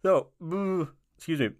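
struggling through a heartburn twinge; halting, pained by heartburn. Real, not acted. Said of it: "I just got hit with some heartburn".

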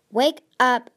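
loud desperate plea; urgent plea. A narrator's reading. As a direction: rouse him with urgent force. Shaking the unconscious Webs.

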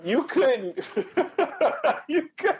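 words squeezed out through laughter; high, wheezy laughing speech; laughing while talking. Real, not acted. Cracking up remembering the sale.

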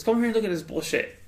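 imitating the neighbor. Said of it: "He goes".

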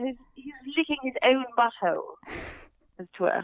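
put-on posh British accent; prim, posh British delivery of something crude. Shown as a demonstration. Improvising about her cat in the accent, posh British. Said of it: "it's a very posh British accent".

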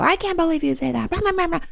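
high, soft mock of a complaining mom. Mom complaining after her child sets a boundary, high mock whine. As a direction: whine it like a mom dismissing you. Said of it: "She might go".

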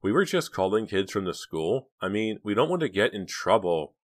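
sweet, slightly high wheedling; lightly sugared girlish persuasion; honeyed coaxing. Acted. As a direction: coax him with a touch of honey. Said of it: "her voice all honey again".

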